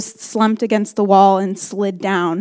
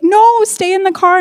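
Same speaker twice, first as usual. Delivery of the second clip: insistent; 9 semitones higher, 4 dB louder than usual. Retold or imitated. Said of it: "he'd be like".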